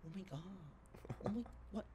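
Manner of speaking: quiet Australian tourist in shock; Australian accent. Retold or imitated. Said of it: "los güeyes de Australia".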